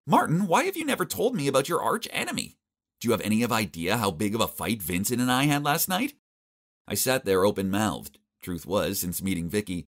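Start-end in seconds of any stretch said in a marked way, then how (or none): 0.1-6.2 blurting accusation. Acted. Vicky confronting Martin about his feud, upset high outburst. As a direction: burst out with the hurt complaint. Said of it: "she blurted out".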